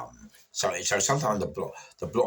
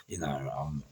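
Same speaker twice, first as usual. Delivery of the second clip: ordinary delivery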